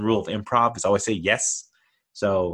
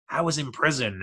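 put-on New York accent; 5 semitones higher than usual. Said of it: "fake New York accent".

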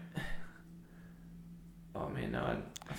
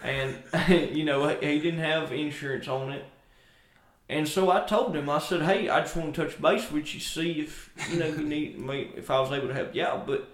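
put-on thick country accent; 3 dB louder than usual. Country neighbor gossiping about Seth's truck, light country accent. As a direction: ramble on like a small-town country neighbor. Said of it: "really thick country accents".

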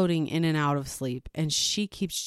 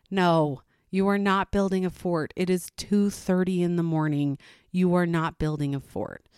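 firm mom scolding. Retold or imitated.

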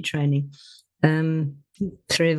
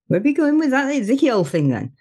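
light Black Country accent, a bit higher; 6 semitones higher than usual. Shown as a demonstration. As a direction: lightly drop into the home accent of Dudley. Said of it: "Which is my accent".

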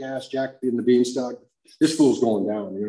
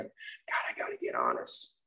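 much lower, quiet self-talk; inner thought; 10 semitones lower, 9 dB quieter than usual. Retold or imitated. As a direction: murmur it to yourself. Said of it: "I remember thinking".

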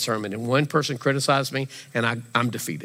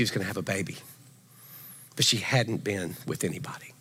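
hushed whisper; 6 semitones lower, 7 dB quieter than usual. Real, not acted. Pastor telling moms Mary's secret, whispered. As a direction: drop to a whisper. Delicate fact told hushed.

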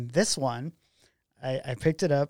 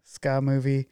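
stunned disbelief; 2 semitones higher, 5 dB louder than usual. Retold or imitated. Stunned reply to Tim.

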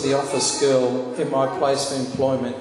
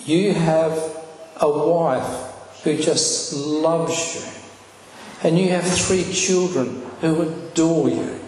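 still small voice; 3 semitones higher than usual. Retold or imitated. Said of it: "still small voice".

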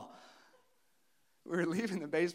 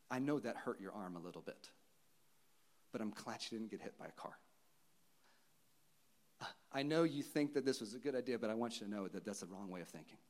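softer, gentle reassurance; tender; 5 semitones lower, 6 dB quieter, faster than usual. Acted. God gently reassuring a rebellious child, softly tender. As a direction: speak as a loving father soothing a child. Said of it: "with grace, with tenderness, with love and mercy".

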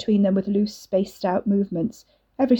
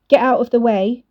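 louder, sharp snap; snapping; 4 semitones higher, 6 dB louder than usual. Acted. Nicole orders Wes aside with a louder snap. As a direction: snap it at him. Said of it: "Nicole snapped".

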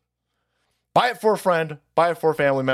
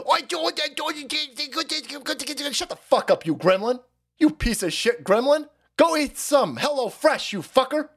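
Fauci impression; 8 semitones higher than usual. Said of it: "Fauci running around telling everybody".

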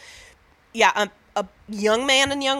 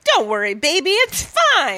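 put-on cocky boyfriend; 6 semitones higher, 3 dB louder than usual. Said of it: "the guy's usually like".

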